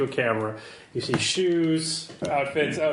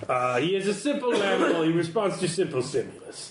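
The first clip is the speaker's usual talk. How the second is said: disdainful contact character. Acted.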